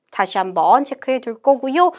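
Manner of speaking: ordinary talk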